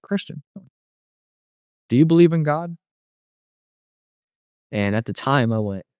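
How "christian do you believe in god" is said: put-on old lady. Old lady patient to the newcomer, high-voiced asking. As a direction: imitate an old lady asking, pitched well up. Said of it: "there was just this old lady sitting there".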